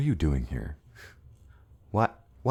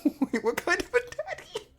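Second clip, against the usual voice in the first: surprised. Real, not acted. Another voice asking surprised.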